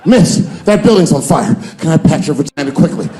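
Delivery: loud urgent begging; mock desperate plea. The hero begging a woman during a fire. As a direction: beg her, frantic and urgent.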